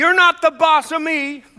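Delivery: put-on little boy yell, very high and shrill. Retelling how a toddler ran down the aisle: imitating a child yelling. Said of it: "yelled out".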